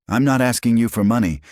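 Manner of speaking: high, sharp retort; offended snap. A narrator's reading. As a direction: refuse his money with pride. Offended refusal.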